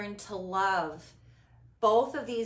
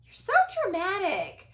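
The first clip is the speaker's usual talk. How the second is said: higher, louder parental reproach with a laugh; mock parent; 11 semitones higher, 7 dB louder than usual. Host mimics her parents calling her dramatic, loud and mocking. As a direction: imitate an exasperated parent. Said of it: "My parents".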